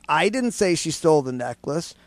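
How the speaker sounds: "I" hit first, the rest running on to a rise; stress on I. Shown as a demonstration. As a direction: lean on the opening "I". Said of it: "all the different meanings it could have".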